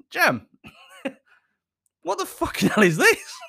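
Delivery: high, loud comic disbelief; outraged confrontation. Retold or imitated. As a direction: demand an answer in mock outrage, breaking into laughter. Confronting partner about the meal.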